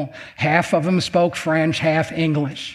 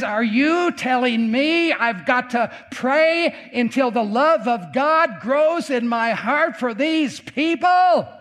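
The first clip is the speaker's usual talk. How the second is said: anguished protest; 4 semitones higher than usual. Retold or imitated. Grieving survivor challenges the preacher's call to pray, anguished protest. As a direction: protest in a raised, pained voice.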